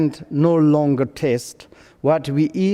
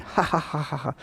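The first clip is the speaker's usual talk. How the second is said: mock "ha ha ha", tailing off softer; imitated laughter; 7 dB quieter, faster than usual. Young Sangha laughing at his speech, imitated laugh. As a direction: imitate young people's giggling. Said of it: "they are laughing".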